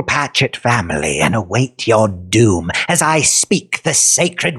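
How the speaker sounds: lightly voiced menacing villain; slow, theatrical evil doctor; slow sinister villain. Villain boasts.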